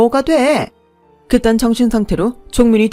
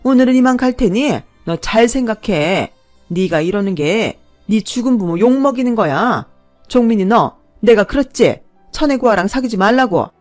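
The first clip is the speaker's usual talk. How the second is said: loud, higher pointing tirade; the mother jumps up and threatens the bride, loud; furious threat; 5 semitones higher, 8 dB louder than usual. A narrator's reading. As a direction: jab your finger and threaten her. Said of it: "벌떡 일어나더니 저한테 삿대질을".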